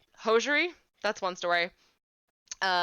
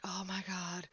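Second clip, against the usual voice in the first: inner whisper; 8 dB quieter, slower than usual. Retold or imitated. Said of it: "and I was like".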